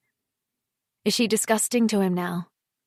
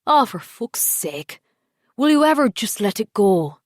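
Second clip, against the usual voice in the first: exasperated anger; 2 semitones higher, 6 dB louder than usual. A narrator's reading. Husband snaps during marriage row.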